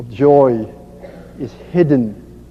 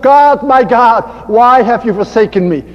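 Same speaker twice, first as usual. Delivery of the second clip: crying out; 3 semitones higher than usual. Acted. Jesus on the cross calls to God, crying out with restraint. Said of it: "he cried out".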